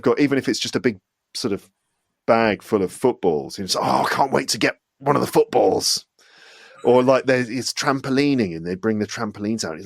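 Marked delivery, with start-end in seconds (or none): 3.8-6.1 lightly acted eager anticipation; mock schoolboy excitement, mildly hammed up; eager kid's excitement.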